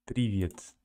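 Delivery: Привет with softened consonants, the Russian way. Shown as a demonstration. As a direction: say Привет softly palatalised, as in Russian. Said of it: "It's softer in Russian".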